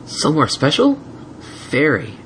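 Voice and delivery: put-on high eager boy; curious little dragon; young dragon voice. Spike voiced in story.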